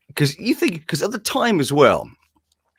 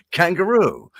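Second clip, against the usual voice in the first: mock Australian accent; hammed-up Aussie stock word; 4 semitones higher than usual. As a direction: put on a silly Australian accent. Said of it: "And now an Australian accent".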